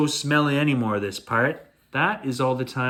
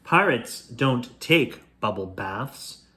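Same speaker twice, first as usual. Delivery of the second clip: sputtering; slower than usual. Acted.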